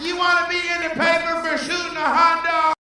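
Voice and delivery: high, scared whiny voice pleading with the cop; terrified vendor begging a cop, in a high whine; pleading hot dog vendor. Retold or imitated. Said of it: "the cop was like".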